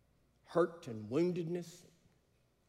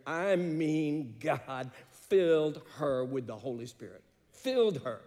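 fervent preaching; 4 dB louder than usual. Acted. Pastor recounting a conversion, preaching at full force. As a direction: preach it out with rising fire.

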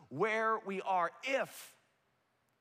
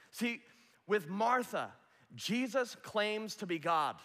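usual speaking voice

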